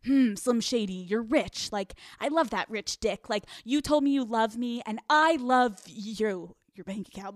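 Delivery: put-on calculated old self. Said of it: "It was like".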